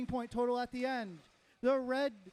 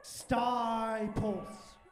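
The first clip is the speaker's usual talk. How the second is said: fighting game announcer; 3 semitones lower than usual. Real, not acted. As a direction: hype announcer shouting the team. Announcer calls out team name.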